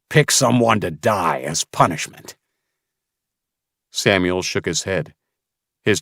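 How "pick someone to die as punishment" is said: menacing. Acted. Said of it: "Mason growled".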